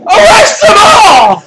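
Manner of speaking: slow, high bellowed order; deputy ordering mass arrest, slow and loud; commanding shout. Acted. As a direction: bark it to the guards.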